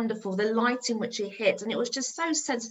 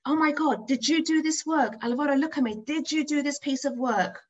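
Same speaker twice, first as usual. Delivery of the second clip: higher, insistent questioning; urgent amazement; 5 semitones higher than usual. Retold or imitated. Amazed teacher runs up to the pupil, urgent questioning. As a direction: press for an answer in excited disbelief.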